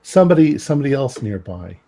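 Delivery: usual speaking voice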